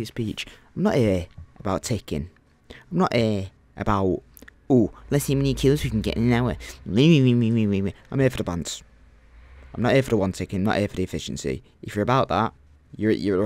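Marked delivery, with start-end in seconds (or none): 4.7-6.6 mocking quote. Mocking efficiency players. 6.9-8.8 drawn-out rant. Real, not acted. Ranting about his goal.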